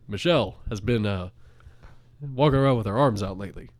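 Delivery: lightly imitated president, halting with uhs; mock presidential address in measured phrases; Barack Obama. President remarking on Michelle's arms, lightly put-on statesman voice. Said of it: "I am your President Barack Obama speaking".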